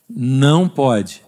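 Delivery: drawn-out, very slow "Não pode"; slow firm no. Retold or imitated. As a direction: stretch it out like scolding a toddler. Repeating warning to the baby.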